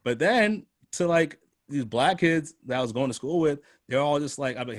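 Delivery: ordinary talk, nothing marked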